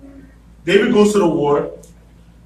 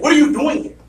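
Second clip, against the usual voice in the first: jealous brother; 8 semitones higher than usual. Retold or imitated. Jealous brother confronting David.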